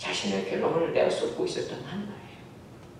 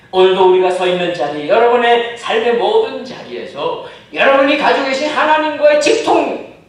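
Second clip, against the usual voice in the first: loud, slowing sermon climax; climactic preaching; 8 semitones higher, 15 dB louder than usual. Acted. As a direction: build to the closing appeal. Closing climax. (절정으로 치닫는 설교)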